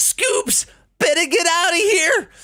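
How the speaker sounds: very high, loud, goofy cartoon voice. Showing a cartoon voice they did on TikTok, Shaggy impression. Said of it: "I'll do Shaggy and Scooby-Doo".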